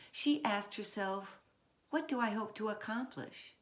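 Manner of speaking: put-on measured read-aloud voice for children; story narration. A narrator's reading. Author reading her picture book to children, measured.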